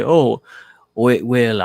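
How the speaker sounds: put-on half-hearted stab at an Australian accent; bad Australian accent. Mimicking an expat who larps, a failed Australian accent. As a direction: try an Australian accent and falter. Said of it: "I can't do a good Australian accent".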